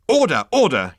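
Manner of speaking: high, loud yapping call; yapped. A narrator's reading. Consultant calling the meeting to order, yapping. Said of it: "yapped the management consultant".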